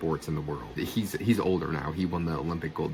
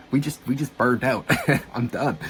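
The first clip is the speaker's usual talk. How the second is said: retold protest; 6 semitones higher, 6 dB louder than usual. Retold exhausted protest, with laugh.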